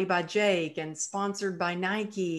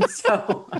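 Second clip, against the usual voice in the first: laughing; 4 semitones higher, 4 dB louder than usual. Real, not acted. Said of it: "laughs at husband's joke".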